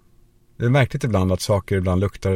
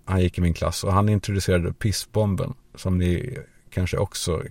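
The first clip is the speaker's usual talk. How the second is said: ordinary talk, nothing marked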